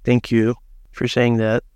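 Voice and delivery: flat monotone thanks; dry, deadpan sincerity; deadpan meme voice. Real, not acted. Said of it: "your monotone voice".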